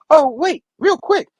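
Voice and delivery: lightly acted high-pitched plea to hold on; eager young caller. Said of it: "And she's like".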